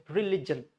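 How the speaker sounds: religion as ri-LIJ-un; religion with "lig" kept together; short I in religion. Shown as a demonstration. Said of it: "L I G should come together".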